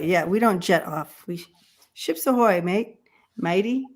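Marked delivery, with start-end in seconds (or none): 1.9-3.9 mock pirate hail, higher on ahoy; hammed-up pirate greeting, lightly done; pirate impression. Host retries her pirate hail for the stream. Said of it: "Was that your pirate impression?".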